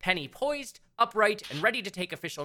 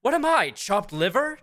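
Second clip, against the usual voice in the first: demanding; 4 semitones higher, 6 dB louder than usual. Acted. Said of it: "demanded Sienna".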